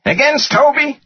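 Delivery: very high, incredulous retort; yelled back. A narrator's reading. Finance guy refusing his boss, incredulous yell back. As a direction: throw it back in scornful disbelief. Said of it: "the guy yelled back".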